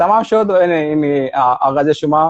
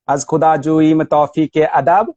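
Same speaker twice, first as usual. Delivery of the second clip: even Persian verse line, rising at the end; metrical recitation. Shown as a demonstration. Scholar sets Rumi's line beside the translation, measured recitation with a rise. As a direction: recite it to match the metre. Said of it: "وزن شعر مولانا و این ترجمه".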